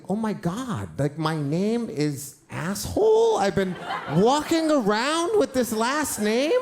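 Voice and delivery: put-on horrified little boy finding out; childish panic. Kid panicking to his aunt.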